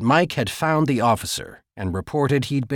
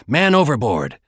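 alarm call; 2 semitones higher, 4 dB louder than usual. Acted. Alarm over intercom.

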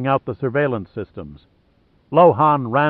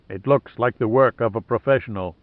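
flatly. Acted. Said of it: "stated Kung Chang flatly".

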